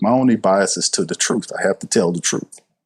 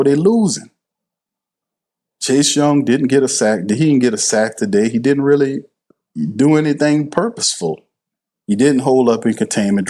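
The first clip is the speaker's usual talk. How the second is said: animated rant; 3 semitones higher than usual. Real, not acted. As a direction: vent about the players, fired up. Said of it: "y'all seeing me get animated here".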